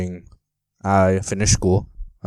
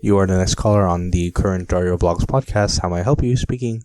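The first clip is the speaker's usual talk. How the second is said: call-in host voice; 6 dB louder than usual. Pretend. Mock call-in host greeting.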